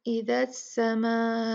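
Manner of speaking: slow, drawn-out Quranic recitation; tajweed recitation. Shown as a demonstration. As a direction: recite इज़ा समाउ slowly. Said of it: "इसमें देखिए".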